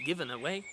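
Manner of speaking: "given away" skipping lightly to a lifted WAY; little skip. Shown as a demonstration. Teacher points out the rhythm, light skip in "given away". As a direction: skip through "given a", land on "way". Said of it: "that little skip that goes along".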